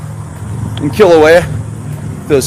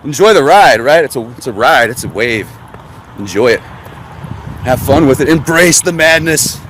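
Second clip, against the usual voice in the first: mock soothing; 5 semitones lower than usual. Sarcastic zen advice on disasters.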